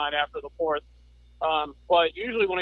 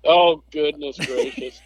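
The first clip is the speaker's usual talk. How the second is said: laughing; 7 dB louder, slower than usual. Real, not acted. Laughing at the imagined fight.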